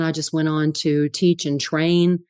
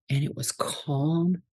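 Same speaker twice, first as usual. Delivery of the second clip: soft calm; 7 dB quieter, slower than usual. Real, not acted. Describing peaceful energy.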